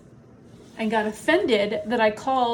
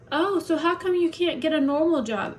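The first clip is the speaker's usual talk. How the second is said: higher, condescending mock of the doctor's question; 6 semitones higher than usual. Vlogger mimicking the doctor who ended her appointment, higher mock voice. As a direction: sneer it back like she asked it. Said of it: "She was like".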